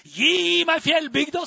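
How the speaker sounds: high, loud cry; impassioned shouted plea; retold shout. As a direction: call out for the mountain village. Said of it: "Det var en som skreik der".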